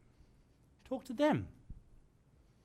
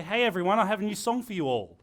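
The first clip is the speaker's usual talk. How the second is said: louder broadcast call to a crowd; addressing the masses; 3 semitones higher, 5 dB louder than usual. Shown as a demonstration. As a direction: announce it to everyone at once. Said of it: "A radio presenter will never say".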